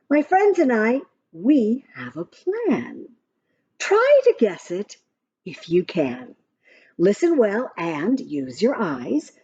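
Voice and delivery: lively sing-song rhyme reading; reading to children. Acted. Parent reading a rhyming story app to a child, sing-song. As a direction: read the verse brightly to a little one.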